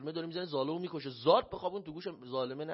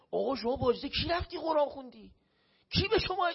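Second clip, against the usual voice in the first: higher, louder mock yell at the boy; imitating an indignant scold; retold angry yelling; 8 semitones higher, 6 dB louder than usual. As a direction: replay the cameraman scolding him in front of the crowd. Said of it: "سر من شروع کرد داد بیداد کردن".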